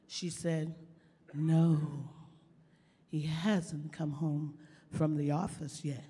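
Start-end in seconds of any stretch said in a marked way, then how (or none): 1.3-6.0 low, slow sly lady voice. Retold or imitated. Lady at the door telling Paul Revere, low and slow with innuendo. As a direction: say it low and knowing. Lady replies, husband away.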